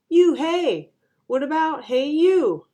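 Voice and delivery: loud, high playground jeer; teasing. A narrator's reading. Boy makes a joke of her name, teasing. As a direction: call it out as a mocking kid.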